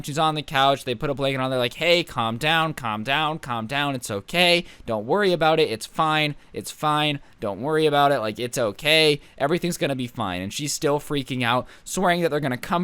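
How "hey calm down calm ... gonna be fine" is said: a touch of hushing a scared guest; calming. Retold or imitated. Guys on the couch soothing the crying girl, gentle. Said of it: "So they're trying to calm her down".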